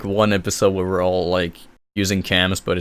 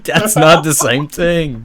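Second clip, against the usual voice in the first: slow laughing protest; 7 semitones higher, 6 dB louder, slower than usual. Real, not acted. Laughing correction.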